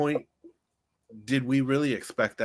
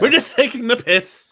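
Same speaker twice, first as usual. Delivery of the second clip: high, loud teasing cackle; teasing laugh; 12 semitones higher, 10 dB louder than usual. Acted. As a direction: rib your mate loudly. Teasing friend, mock voice.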